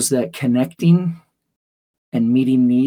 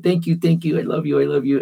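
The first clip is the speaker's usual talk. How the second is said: put-on happy child; 4 semitones higher, faster than usual. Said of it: "hug and said".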